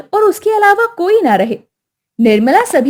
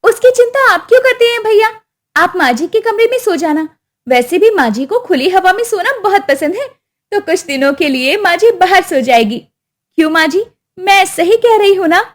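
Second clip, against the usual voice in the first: raised, falsely sweet voice; sly daughter-in-law; 5 semitones higher than usual. Acted. Daughter-in-law sending mother-in-law outside, falsely sweet. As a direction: sweeten the cruel plan.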